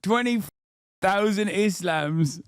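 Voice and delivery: mock disbelief. Repeating the number again mockingly.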